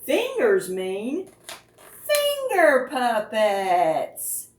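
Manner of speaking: grand reveal. Acted.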